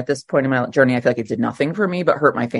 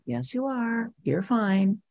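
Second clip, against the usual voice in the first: sponsor's calm reply; 7 semitones higher, 9 dB quieter, slower than usual. Retold or imitated. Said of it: "she consistently said over and over again".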